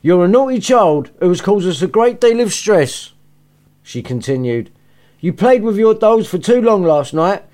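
a cross mother laying down the blame; pissed off mother. Acted. Mother lecturing injured Maz in bed, irritated rant. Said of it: "vibe of pissed off mother in her voice".

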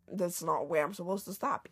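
inner voice. Retold or imitated. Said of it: "In my head, I said it in my head".

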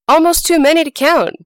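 sly rabbit yelling up the well; yelled back. Acted. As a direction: bait the fox with a big yell. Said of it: "Brer Rabbit yelled back".

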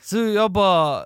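normal talking voice

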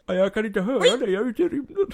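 high, put-on character voice; high, distant-guard act; voice from space. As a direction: call back in a high voice from afar. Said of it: "du hör hans röst i mörkret".

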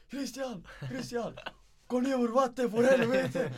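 very high, loud panicked shout for Christian; dad bursting in shrieking in panic for water; panicked dad yelling. Retold or imitated. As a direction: scream for your son like the house is on fire. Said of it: "farsan komma med ren panik".

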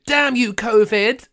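slow, high hammed-up curse at covid; mock outrage. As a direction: shake a fist at the sky.

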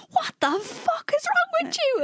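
high put-on boss voice; lightly voiced owner snapping; mock angry owner. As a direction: lightly imitate the boss's outburst. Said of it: "owner was like".

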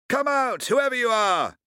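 high, loud hail; shouting. Acted. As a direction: call out to the ship at full voice. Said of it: "he shouted".

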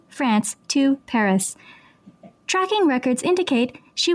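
flat, even robot readout. Pretend. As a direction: read it like a robot. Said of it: "I'm a robot".

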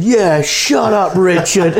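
high, slow, breaking into laughter; laughing mimic. Jumper telling posh Richard to shut up, laughed out high. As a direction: retell the jumper's line through laughs. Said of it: "the guy who nearly jumped said".

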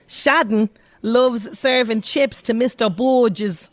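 put-on a light, slowed Dublin accent, like the Snapper. Presenter doing a Dublin accent for Sharon's birthday, light Dublin accent. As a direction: slip into a half-hearted Dublin accent from the Snapper. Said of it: "That's my best Dublin accent, uh, from the Snapper".

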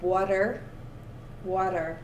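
"Water" with a careful final R; practising the R. Shown as a demonstration. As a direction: sound out the R at the end of "Water". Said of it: "that's a hard one for me".

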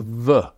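"the" as a bare "vuh"; standard V sound. Shown as a demonstration. Historian showing the sound Cockneys replaced, "the" said as "vuh". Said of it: "what Mar-, marks Cockneys out is that they say".

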